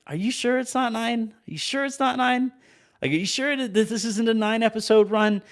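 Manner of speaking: incredulous disbelief. Retold or imitated. Fan at the finale, high, incredulous. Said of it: "I kept finding myself looking like".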